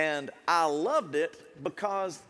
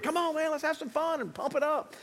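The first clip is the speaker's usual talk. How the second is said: hyping the crowd; 10 semitones higher than usual. Retold or imitated. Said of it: "that's what I did".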